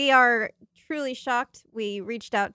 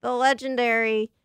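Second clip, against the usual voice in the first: dramatic announcer; 4 semitones higher, 4 dB louder than usual. Pretend. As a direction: build up the big reveal. Dramatic introduction.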